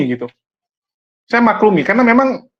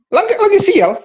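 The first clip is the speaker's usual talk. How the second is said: mock unlucky sigh; 9 semitones higher than usual. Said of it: "Saya anggap".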